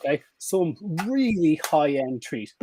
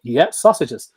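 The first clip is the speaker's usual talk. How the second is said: louder "Yeah, sausages" as the owner; owner's loud call; 7 dB louder, much slower than usual. Shown as a demonstration. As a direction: reward the dog with a loud cheer. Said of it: "And you go".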